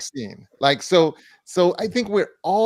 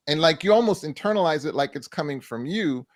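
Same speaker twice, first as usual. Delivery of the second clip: usual speaking voice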